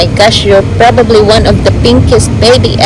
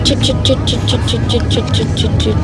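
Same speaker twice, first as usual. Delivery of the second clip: soft shushing; 6 dB quieter, faster than usual. Real, not acted. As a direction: shush softly, rocking rhythm. Soothing a crying baby.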